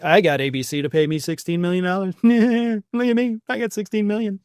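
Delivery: lightly voiced gloating; a mild put-on Trump boast; mock bragging. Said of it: "he immediately goes to bragging".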